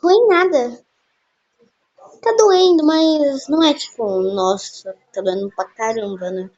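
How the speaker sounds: loud, mock-brave talk of the pain; loud faked pain. Telling her friend the arm hurts, loud mock-brave. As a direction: play down the pain, loudly. Prank call, faking pain.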